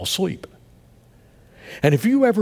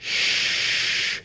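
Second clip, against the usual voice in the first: soft shush; 4 dB quieter than usual. Retold or imitated. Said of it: "You know what I heard".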